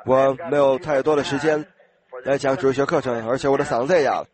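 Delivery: rough, worn-out preacher's voice; hoarse voice. Real, not acted. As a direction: speak through a hoarse throat.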